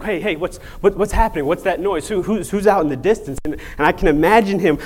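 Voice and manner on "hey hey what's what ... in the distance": higher-pitched, stammered string of questions; puzzled, urgent questioning. Acted. Blind man asks what the noise is, puzzled and urgent. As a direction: act out mildly agitated curiosity. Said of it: "Bartimaeus is like".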